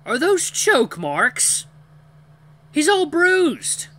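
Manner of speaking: high, drawn-out shout; alarmed arguing. A narrator's reading. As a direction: cry out in loud, high alarm. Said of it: "as the creature's arguing".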